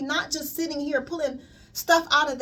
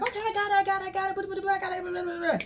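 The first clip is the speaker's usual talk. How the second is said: higher, quick "I got it, I got it", trailing into blah blah; dismissive brush-off; 7 semitones higher, much faster than usual. Retold or imitated. Client impatiently brushing off her healer's advice. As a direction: wave it away like you've stopped listening.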